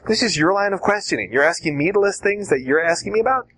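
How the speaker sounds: light mock disbelief, rising at the end; really, you're asking me that; surprised. Shown as a demonstration. Witness acting surprised at the examiner's line of questioning. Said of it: "kind of the surprise".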